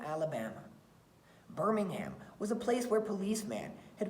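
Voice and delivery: put-on expressive read-aloud for children; story reading. Teacher reading a picture book to her class, expressive storytelling.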